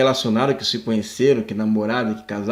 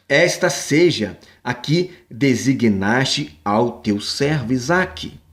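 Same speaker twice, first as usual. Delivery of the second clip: scripture reading; slower than usual. Acted.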